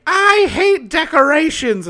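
high mock grumpy house mother. Voicing mean house mother.

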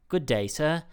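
polite British accent, loosely imitated; attempted British accent. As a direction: have a go at courteous London English accent. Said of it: "nice British".

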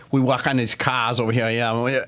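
put-on Boston accent; imitated Boston accent. Radio car guys introducing themselves, mock Boston accent. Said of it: "They got them real Boston accents".

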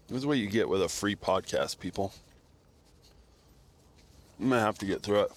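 talking through a mouthful of food; words muffled by chewing a bar; chewing while talking. Real, not acted. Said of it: "Excuse me while I chew my food".

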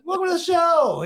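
high, energetic host welcome; show-opener call-out. Acted. Host welcoming listeners to the show, high call-out.

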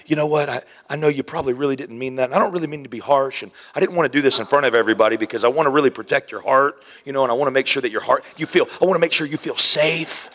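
hushed, fast, overly gentle pastor; mock-gentle pep talk to Peter, hushed and fast; soft pastor voice. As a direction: coax him like a tiptoeing counselor. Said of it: "he doesn't pull him aside and say".

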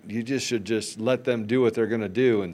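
mock Aussie accent, lightly done; a weak try at an Australian voice. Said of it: "is that your Australian accent?".

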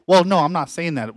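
a mock of her backpedalling; imitating the landlord.

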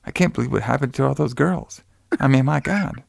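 soft, untroubled mock of the wife; not out of breath. Wife supposedly running through snow, voiced softly and not out of breath. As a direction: play it softly, with no effort in the breath. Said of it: "not even out of breath".

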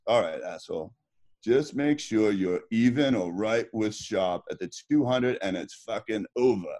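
a lightly voiced old coach barking the race plan; gruff coach voice. Swimmer imitating his coach before the final race. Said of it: "he goes".

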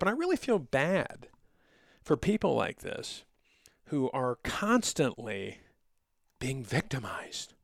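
heavy mock sympathy; sarcastic, fake pity for victims. Real, not acted. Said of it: "If you can't hear the sarcasm in my voice, that's sarcasm".

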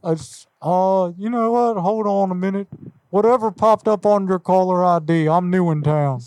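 folksy neighbourly caller, only slightly put on; Hank Hill voice. Prank caller greeting the car buyer, light Hank Hill voice. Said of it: "Yes, Hank Hill".

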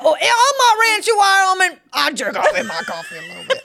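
hammed-up cowboy voice, quick and high; mock tough guy bragging about his ranch; mock macho rancher. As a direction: play a crude rancher for laughs. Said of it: "I never talk like that".

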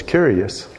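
curious said as KYUR-ee-us; phonetic Greek Kurios. Shown as a demonstration. Preacher reading a Greek word phonetically, curious as KYUR-ee-us. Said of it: "I'm pronouncing it phonetically".

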